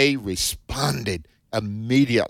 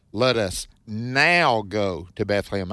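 now given the main weight of the line; stress on NOW; 2 semitones lower than usual. Shown as a demonstration. Radio host reading scripture to listeners, stressing now. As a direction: lean into the word now as you read the verse. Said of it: "I underline the word now".

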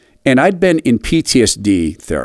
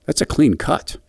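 calm reassurance; 4 semitones higher, 5 dB quieter than usual. Retold or imitated. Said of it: "instead of freaking out".

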